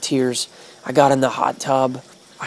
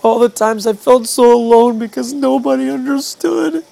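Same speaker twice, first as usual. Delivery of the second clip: voice breaking; 6 semitones higher than usual. Real, not acted. Emotional memory of ordeal.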